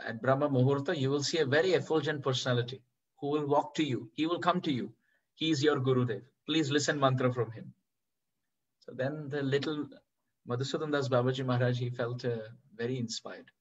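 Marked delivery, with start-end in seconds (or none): none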